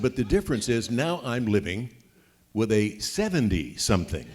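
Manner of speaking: retold joke, laughing through it; teasing through laughter. Husband teasing his wife at dinner, laughing. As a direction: chuckle as you land the jab.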